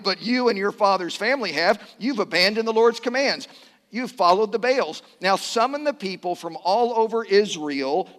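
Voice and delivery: lightly acted prophet, emphatic delivery; Elijah. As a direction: read it as a prophet issuing a challenge. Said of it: "I get to be Elijah".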